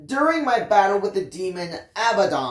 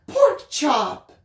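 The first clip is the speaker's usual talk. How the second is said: disapproving; 9 semitones higher, 3 dB louder than usual. A narrator's reading. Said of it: "raising her eyebrows disapprovingly".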